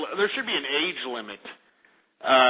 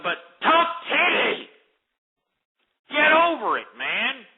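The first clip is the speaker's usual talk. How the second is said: shouting; 8 semitones higher than usual. Real, not acted. Shouting down the caller.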